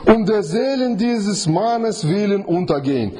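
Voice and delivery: high, slow pleading prayer; sailors praying. Acted. Sailors plead with God for mercy, high and slow. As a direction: beg God slowly from up high.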